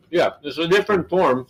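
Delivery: talking through a mouthful; words round a bite of chips; mouth full. Real, not acted. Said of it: "Sorry to talk with my mouth full".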